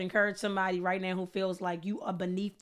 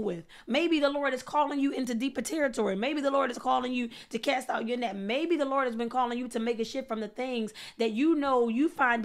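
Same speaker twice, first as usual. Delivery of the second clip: slightly raised, insistent sermon voice; earnest preaching; 5 semitones higher than usual. Real, not acted. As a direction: build a rolling list of appeals.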